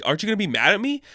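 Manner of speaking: high, pleading mock outburst as Ice; mock lashing out. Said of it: "she's kind of lashing out".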